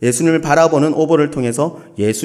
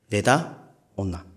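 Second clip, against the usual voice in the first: Gyeongsang curt call; 5 semitones lower, 8 dB quieter, slower than usual. Acted. God's voice quoted in sermon.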